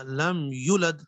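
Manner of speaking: یولد with the long و cut short; wrong shortening. Shown as a demonstration. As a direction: clip the vowel in یولد. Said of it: "اس کو کیا پڑھ دیا". (یولد کو گھٹا کر پڑھنا)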